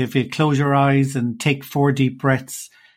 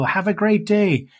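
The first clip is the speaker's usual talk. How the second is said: higher, slow, drawn-out cheery sign-off; hyper-friendly farewell; 6 semitones higher, slower than usual. Retold or imitated. Milkman leaving the kitchen at six, mock hyper-friendly. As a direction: imitate an over-friendly American farewell. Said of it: "he'd be hyper friendly".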